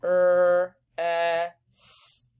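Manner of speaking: er and es said as separate sounds; teacher isolating sounds in press; sounding out sounds. Shown as a demonstration. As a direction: isolate er then es. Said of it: "I hear four sounds there".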